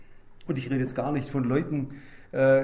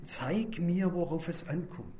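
soft, hushed plea to God, slowing and fading; humble prayer; 5 dB quieter than usual. Pretend. Preacher voicing his own daily prayer, soft and humble. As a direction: pray it quietly, almost to yourself. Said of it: "Heute sage ich".

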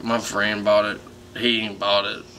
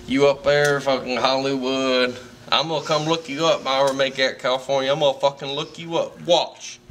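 excited; 3 semitones higher than usual. Real, not acted. Drunk fan gushing at celebrity.

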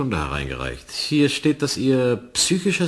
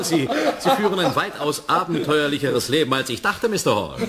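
laughing; 5 semitones higher than usual. Acted. Mocking the story of attacking objects.

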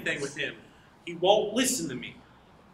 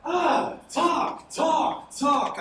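exasperated ranting; 8 semitones higher, much slower than usual. Acted. Man rants at chattering girl.

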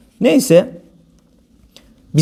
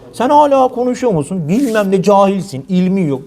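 mocking a critic. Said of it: "senin yüzünden".

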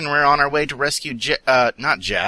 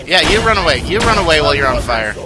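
loud taunt at a fleeing enemy; taunting yell; 3 semitones higher, 6 dB louder, faster than usual. Real, not acted. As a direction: call after them, loud and cocky.

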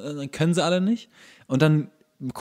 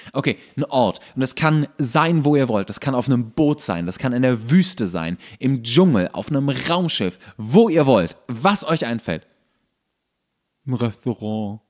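teacher instructions. Shown as a demonstration. Teacher telling the students to pick a place, clear instruction voice. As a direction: set the task for the class. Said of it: "demonstrates giving class instructions".

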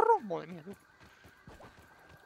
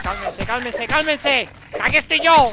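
louder and higher to a yell; rising shout; 4 semitones higher, 12 dB louder, slower than usual. Real, not acted. Gamer taunting the attacking bugs, rising yell. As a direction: build to a cocky shout.

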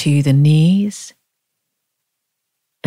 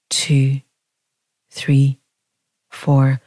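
out-breath count; 2 semitones lower, much slower than usual. Shown as a demonstration. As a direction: count "two, three, four" on a dropped note, with pauses, as if emptying the lungs.

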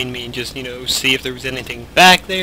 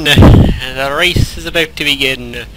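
race announcer; 5 dB louder than usual. Pretend. Mock race announcer opening.

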